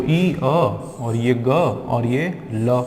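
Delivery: ई, अ, ग, ल each stretched very slowly; sounds split apart. Shown as a demonstration. Teacher breaks ईगल into sounds for the class, very slowly. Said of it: "ये होता है संधि विच्छेद करना".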